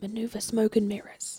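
very quiet, hushed mutter under the breath. Retelling turning to Merlin to give an order, whispered under breath. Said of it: "very, very under my breath".

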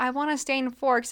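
ordinary talk, nothing marked

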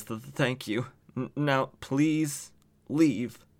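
mock whimpering. Retelling a scene, the speaker gives the woman's reply to her attacker, imitating whimpering. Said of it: "kind of whimpering".

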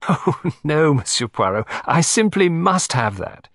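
high cry, laughing through it. Narrator voicing a woman reaching for a box, crying out laughingly. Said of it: "she cried laughingly".

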